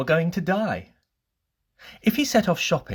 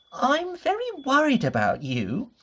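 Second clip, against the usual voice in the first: much higher, anxious fretting little voice; Mister Worry's voice; 13 semitones higher than usual. Acted. Mister Worry frets to Mister Bump in a high, anxious voice. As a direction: fret over him in a high, worried voice. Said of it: "he said".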